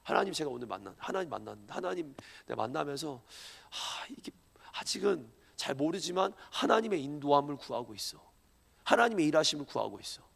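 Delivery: low, soft, half-whispered prayer; a hushed, humble prayer to God; quiet seeking prayer. Shown as a demonstration. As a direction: pray softly, searching for guidance. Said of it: "진짜 기도는 하나님 만났다고".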